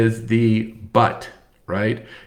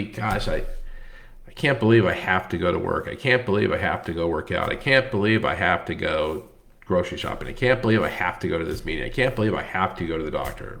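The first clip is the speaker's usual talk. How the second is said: grumbling complaint; 4 semitones lower, 3 dB quieter, faster than usual. Shown as a demonstration. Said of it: "And that might be".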